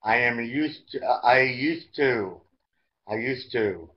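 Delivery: slow, deliberate vocabulary drill; teacher's model reading. Shown as a demonstration. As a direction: stretch each phrase out, pausing for learners to follow.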